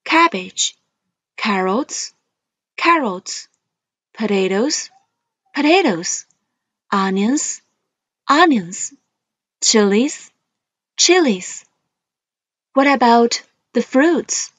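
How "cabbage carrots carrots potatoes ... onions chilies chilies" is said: each word twice, rising then falling; list reading tune. Shown as a demonstration. Teacher modelling vocabulary for students, rise then fall. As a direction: model words for the class to repeat. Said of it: "Please read after me".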